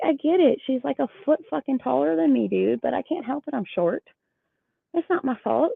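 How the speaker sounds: high-pitched defensive protest; retold irritation. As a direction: re-enact pleading your case, exasperated. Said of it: "I was so irritated".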